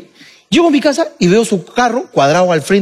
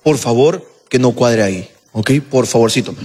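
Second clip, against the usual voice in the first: pedido cortés en tono grave; de buena manera; 10 semitones lower than usual. Retold or imitated. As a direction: pedir bajito y con amabilidad. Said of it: "me dijo de buena manera". (ruego tranquilo y educado)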